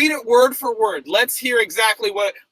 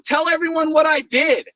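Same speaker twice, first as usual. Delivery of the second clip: angry shout; 4 semitones higher than usual. Real, not acted. Heated argument, demanding an answer.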